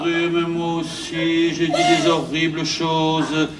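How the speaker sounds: slow, soothing confession; tender consoling. Acted. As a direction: comfort your sweetheart, drawing out the words. Console en se reprochant aussi. (consolation tendre et traînante)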